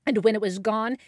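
ordinary delivery, nothing marked

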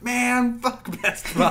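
high mock yell cracking into laughter; retold scream. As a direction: yell it out like from a passing car. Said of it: "drove past and just screamed".

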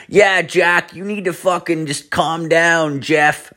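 put-on high-pitched take on a girlfriend; imitated girlfriend. Girlfriend telling her overheating boyfriend to calm down, high imitated voice. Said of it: "She's like".

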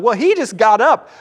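high, loud matter-of-fact shrug; deadpan answer. Retold or imitated. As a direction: toss it off as if it were obvious. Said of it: "And I'm like".

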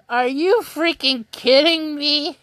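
high, laughing disbelief at the tweet result. Retold or imitated. Fan reacting to a Twitter quiz, laughing disbelief. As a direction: react like you can't believe the quiz picked you. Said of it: "I was like".

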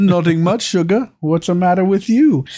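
hammed-up Irish answer, playful; imitating Irish accent. Quoting the TikTok guy's reply in mock Irish. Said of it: "It's the accent made the whole thing".

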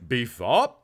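B F O P run together as Beefop. Retold or imitated. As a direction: say Beefop as one word. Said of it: "he always calls it Beefop".

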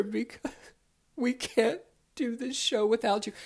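high, loud, slow begging voice; pleading Todd. Retold or imitated. Todd begging Philip on voicemail to come, mock pleading. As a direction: whine an apology in a squeaky plea. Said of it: "the voice message sounded like".

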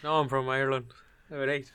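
short put-on Irish accent bit. Insisting to laughing friend he's from Ireland, Irish accent. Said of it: "That wasn't a bad Irish accent".

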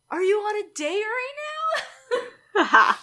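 high mock yell across a loud bar; imitated scream over music. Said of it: "he screams over the music".

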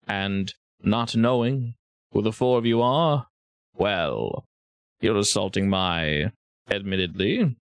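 a hint of a puzzled villain, unhurried; measured, accented host. Game master as the host addressing base attackers, measured character voice. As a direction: answer intruders as a measured host.

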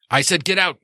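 angry shop owner ordering a visitor out; angry get out. Acted. Gino throws the guy out.

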